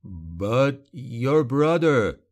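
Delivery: very slow, drawn-out plea; pleading. A narrator's reading. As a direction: plead haltingly, stretching each word. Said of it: "voice pleading".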